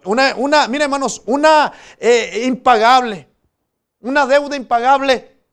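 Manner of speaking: predicación fuerte, con voz proyectada; proclámalo con fervor ante la congregación; prédica enérgica. Real, not acted. (prédica encendida)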